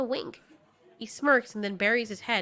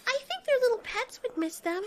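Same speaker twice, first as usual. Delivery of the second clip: put-on eager young Marley. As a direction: pitch a new plan to friends. Marley pipes up in the argument.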